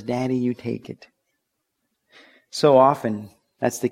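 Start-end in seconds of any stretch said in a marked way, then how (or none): 0.0-1.1 put-on tired little girl. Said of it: "not until she gets tired".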